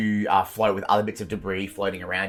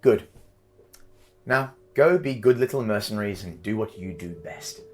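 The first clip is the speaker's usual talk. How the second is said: louder, menacing patron giving orders; commanding patron voice; 3 dB louder than usual. Acted. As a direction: threaten the mercenaries like a cruel fey patron. Patron voice again.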